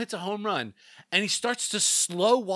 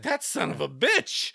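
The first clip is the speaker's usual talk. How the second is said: mildly heated, slowed cursing; slower than usual. Retold or imitated. Host retelling his reaction to the home run, heated. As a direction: draw the curse out with some heat. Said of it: "Even I was heated".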